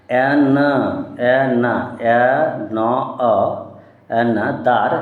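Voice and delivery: teacher slowly piecing অ্যানা and দার together; another in parts. Shown as a demonstration. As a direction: sound out অ্যানা, then দার. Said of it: "তো এখান থেকে অ্যানা".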